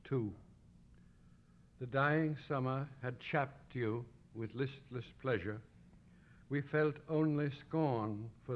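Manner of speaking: measured, deliberate poem recital; solemn literary reading with weighted words; poetry reading. Acted. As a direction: read it as verse, pausing after each phrase. Reads translated poem aloud to audience.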